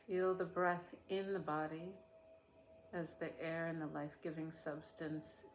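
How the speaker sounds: unhurried meditation voice with long pauses; guided meditation. Real, not acted. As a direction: guide listeners gently through a body scan, leaving space after each phrase.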